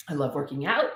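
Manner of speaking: throat still catching after coughing; strained between coughs; choking on a drink. Real, not acted. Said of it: "choking here".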